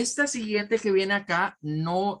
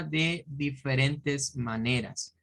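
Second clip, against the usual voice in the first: slow emphasis; 2 semitones lower, slower than usual. Shown as a demonstration. Teacher explaining deliberately.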